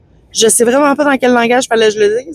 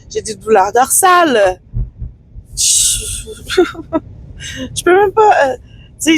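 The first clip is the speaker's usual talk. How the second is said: voice breaking; 7 semitones higher than usual. Real, not acted. Breaks down telling money trouble.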